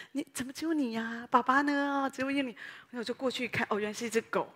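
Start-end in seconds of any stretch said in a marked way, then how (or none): 0.1-2.5 put-on mild baby talk. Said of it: "牧师在那里说".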